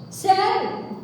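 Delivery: loud, high, incredulous cry; loud disbelief. Real, not acted. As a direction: throw it out in shock. Outrage at the pastor's words. ("Sério!" alto e indignado)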